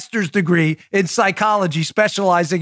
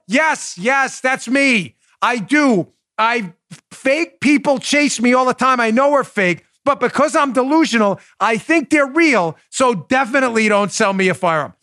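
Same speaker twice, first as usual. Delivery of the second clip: pitched-up, over-earnest sarcastic admission; mock confession; 5 semitones higher than usual. Imagined buyer admitting delusions to the dealer, sarcastic. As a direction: ham up an absurdly willing confession. Acted customer's absurd confession, mocking.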